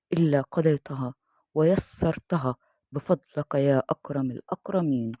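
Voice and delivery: steady, devout supplication read; prayer recitation. Acted. Storyteller praying for listeners before the story, devout recitation. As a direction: recite the dua reverently.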